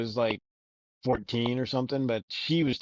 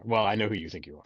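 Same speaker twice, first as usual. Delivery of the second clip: rising to a shout; 7 dB louder than usual. Real, not acted. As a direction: blurt the last word loud. Ending leaps to shout.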